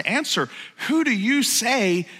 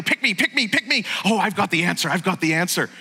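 eager teacher's pet. Retold or imitated. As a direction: play the keen student begging to be picked. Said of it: "he's a little bit like the teacher's pet".

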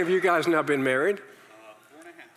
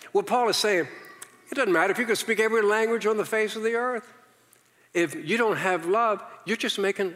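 fervent preaching; 8 semitones higher than usual. Real, not acted. Preaching climax, raised pitch.

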